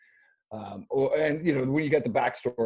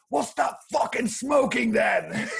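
high, slow shouted retort, laughing through it; retold yell; 13 semitones higher, 4 dB louder, slower than usual. Coach yelling at crying student to quit smoking. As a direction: bark it at him like the fed-up coach. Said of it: "yells at him".

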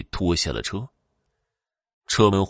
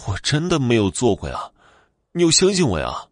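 pleading protest; 4 semitones higher, 3 dB louder than usual. Acted. Pleading innocence to old woman.

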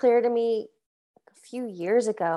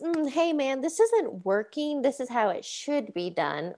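acted-out patient talking-to, starting higher and settling down; gentle correction; 4 semitones higher, 3 dB quieter than usual. Coach voicing a dad correcting his young son, gently corrective. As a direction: imitate a parent easing into a correction.

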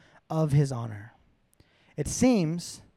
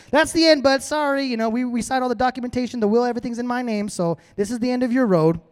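higher-pitched mock brush-off, quickening in the middle; lightly voiced dismissive wife; 4 semitones higher than usual. Wife tells ruined Haman it's over, lightly mocking. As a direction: brush him off like settled paperwork.

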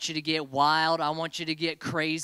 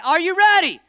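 shouted countdown; 13 semitones higher, 10 dB louder than usual. Real, not acted. Host starting the game with a loud countdown. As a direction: shout the countdown, rising higher.

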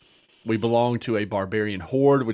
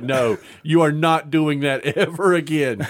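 laughing refusal; 4 semitones higher, 4 dB louder than usual. Retold or imitated. Party refuses his doctoring.

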